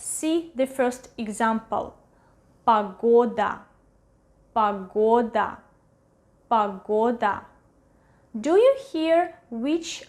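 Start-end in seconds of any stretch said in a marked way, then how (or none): 2.7-7.4 "Pagoda" with a clear stressed O in the middle and final A; "Pagoda" said pa-GO-da for learners; Russian vowel reduction. Shown as a demonstration. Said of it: "pronounce it as O".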